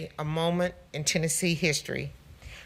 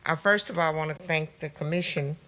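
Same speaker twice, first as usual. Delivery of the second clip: through a face mask. Real, not acted. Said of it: "Can you hear me through my mask?".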